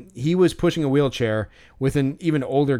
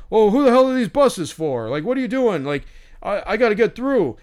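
high, indignant mock yelling; mean, nasty imitation; 7 semitones higher, 4 dB louder than usual. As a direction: act out a man yelling at staff. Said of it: "so mean and nasty".

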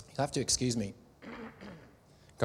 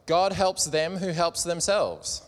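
put-on hick American accent; 4 semitones higher, 5 dB louder, slower than usual. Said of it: "with a really hick American accent".

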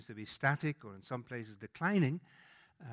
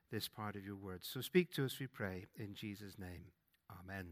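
prayer. Real, not acted. Preacher leading the church in prayer before the reading, reverent. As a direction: pray it over the congregation, humbly.

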